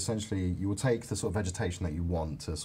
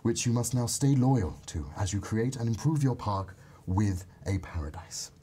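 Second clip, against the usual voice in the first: fairy voice. Pretend. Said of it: "So I want you to do a fairy voice".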